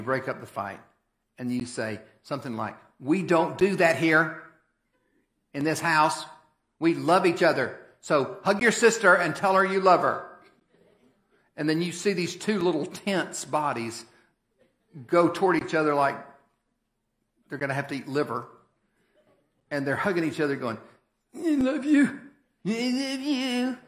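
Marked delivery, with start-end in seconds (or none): 3.0-10.3 stern parent. Retold or imitated. Parent breaking up kids' fight. 21.3-23.8 put-on grudging kids. Kids forced to hug and say it.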